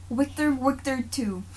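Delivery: slow, mock Russian accent quoting a film; a lightly done Russian accent. Quoting a film villain in a mock Russian accent. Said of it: "Can I do a Russian accent?".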